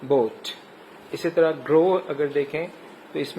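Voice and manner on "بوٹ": بوٹ with a long "oh" vowel. Shown as a demonstration. Teacher showing the O sound, long-vowel بوٹ. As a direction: model بوٹ alone, with a full "oh". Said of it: "او sound".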